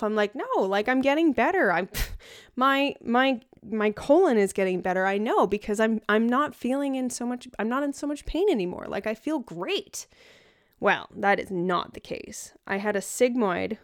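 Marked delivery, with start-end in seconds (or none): 0.3-10.1 higher-pitched, insistent self-quote; confident. Retold or imitated. Patient insisting to her doctor she is getting better, confident. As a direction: protest with breezy certainty. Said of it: "me being my confident self".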